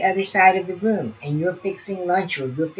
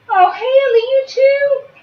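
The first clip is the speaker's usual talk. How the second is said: surprised; 8 dB louder, slower than usual. Real, not acted. Another baby starts crying.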